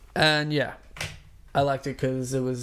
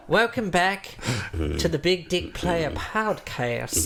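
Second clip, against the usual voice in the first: announcer voice; slower than usual. Acted. Podcast intro announcement.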